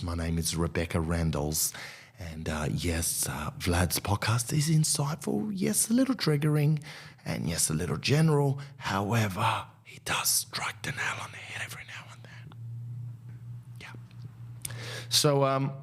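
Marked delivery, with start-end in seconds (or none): 0.0-9.6 a hint of a polite reviewer summing up; pretend newspaper reviewer. Comedian voicing a Canberra Times critic reviewing his podcast, lightly voiced. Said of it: "that would be a savvy reviewer of the Canberra Times". 9.8-14.7 breathy whisper, much softer; whispered reviewer. Pretend. Mock reviewer whispering her grudging praise. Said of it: "that would be a savvy reviewer".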